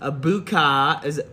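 lightly acted cabin announcement; flight attendant voice. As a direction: airline welcome over the intercom. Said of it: "I'm gonna do the regular voice".

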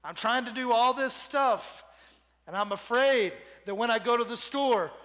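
lightly voiced whining complainer, fast at the end; whiny Gideon. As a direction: whine about being stuck at home, rushing. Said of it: "Gideon goes and he whines to God".

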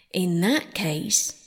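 slow, solemn pronouncement. Acted. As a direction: say it gravely and slowly. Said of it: "said the Dodo solemnly".

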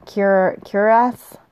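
cuirass tried out slowly as cur- then cuirass; unsure pronunciation. Real, not acted. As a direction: sound out cuirass hesitantly, kur-, kwee-rass. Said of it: "I don't know how to say that word".

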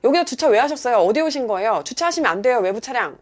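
pushy rapid-fire questioning; aggressive scolding. Retold or imitated. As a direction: re-enact telling off an outside driver. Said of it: "약간 공격적으로 말이 나가는 거예요".

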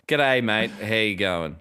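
imitated American go at Australian; put-on Australian greeting, as an American would; American's best Australian accent. Mimicking Americans doing their best, mock Australian accent. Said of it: "if you guys do your best".

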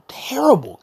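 breathy whispered word. Real, not acted. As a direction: hiss it in disgust. Whispered aside.

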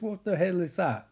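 mildly upset retold outburst. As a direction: quote someone upset, voice lifted. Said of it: "Like, really upset".

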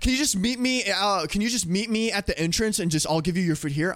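mildly testy mock whine; hangry driver.

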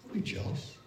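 whisper. Real, not acted. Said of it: "preacher hushes the point".

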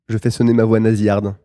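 talking through the nose; nasal twang on every word. Shown as a demonstration. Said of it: "tu peux refaire sonner ta voix nasillarde". (voix nasillarde)

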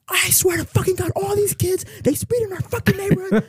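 high mock rant, laughing at the end; hammed-up outraged dad complaining. Dad ranting about speeding kids.

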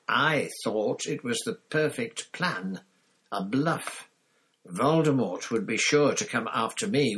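loud, bitter accusation; angry Black. A narrator's reading. Black accusing Pettigrew of betrayal, loud and bitter. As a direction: hurl the contempt at him, loud.

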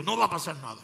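mild stern divine voice; serious voice. Retold or imitated. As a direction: say it with calm authority. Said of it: "una voz seria le dijo".

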